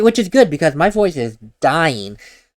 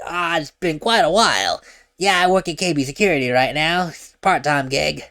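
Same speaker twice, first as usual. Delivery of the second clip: slightly gravelly voice; 3 semitones higher than usual. Retold or imitated. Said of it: "the very slightly gravelly voice".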